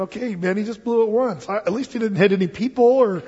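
put-on a child protesting to the Lord on Moses's behalf, building up; pleading protest. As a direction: argue the case for Moses, rising to a cry. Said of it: "I'm thinking".

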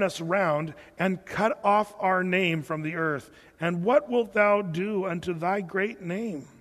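measured, solemn Bible reading; scripture reading. Acted. Pastor reading Joshua's prayer to the congregation, solemn. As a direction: read the verses with weight.

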